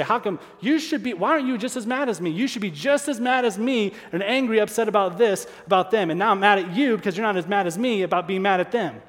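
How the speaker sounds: hammed-up indignation, pressing him; mock angry rant. Preacher imitating himself attacking great friends, a mock angry rant.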